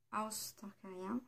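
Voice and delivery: House Targaryen, lent et bien plus doux, façon anglaise; essai d'accent anglais. Shown as a demonstration. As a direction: appliquer l'accent anglais sur House Targaryen. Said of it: "faut pas regarder mon accent". (« House Targaryen » avec un accent anglais appliqué, doux et lent)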